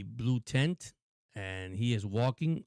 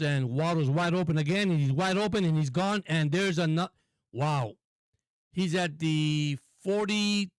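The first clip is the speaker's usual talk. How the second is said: rising, building call as the receiver breaks free; excited play-by-play; 4 semitones higher than usual. Acted. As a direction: sell the big play like a live announcer.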